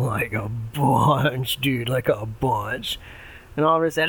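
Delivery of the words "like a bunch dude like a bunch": frat bro. Acted. Pig one drawls.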